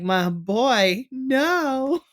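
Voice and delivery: rising, drawn-out high wail of "no"; mock heartbroken plea. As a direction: plead with a friend in playful anguish. Acting out dismay for Trick.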